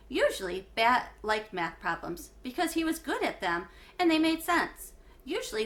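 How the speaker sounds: clear, lively read-aloud for a class; story narration. A narrator's reading. Teacher reading a chapter book to her class, lively narration.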